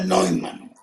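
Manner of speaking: Neumann said "noy-man", German eu as oi; German pronunciation. Shown as a demonstration. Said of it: "Se pronuncia". (Neumann pronunciado a la alemana, "nóiman")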